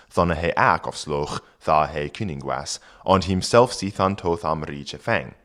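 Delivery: put-on reading Old English aloud. Shown as a demonstration. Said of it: "and then the author says".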